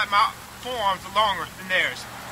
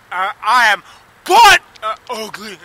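angry self-loathing shout; 11 dB louder than usual. Real, not acted. Self-loathing rant on camera.

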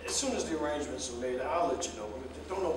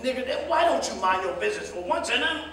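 annoyed; 9 semitones higher, 4 dB louder than usual. Acted. Snapping at a meddler.

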